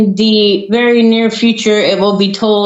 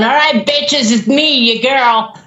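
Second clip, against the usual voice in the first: mock grand entrance; 4 semitones higher than usual. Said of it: "Just picture Ashley walking into some place going".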